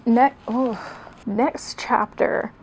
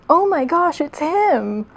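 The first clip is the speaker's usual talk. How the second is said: excited fangirl squeal; 6 semitones higher, 4 dB louder, slower than usual. Acted. Store women gasp.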